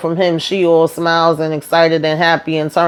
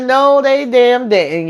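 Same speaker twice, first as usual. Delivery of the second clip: high, drawn-out exclamation of disbelief; scandalized disbelief; 6 semitones higher, slower than usual. Real, not acted. Recapper tells viewers about the fight, scandalized disbelief. Narrator reacting in mock shock.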